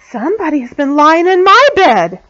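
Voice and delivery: a touch of indignant mother bear; middle-sized voice. A narrator's reading. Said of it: "in her middle-sized voice".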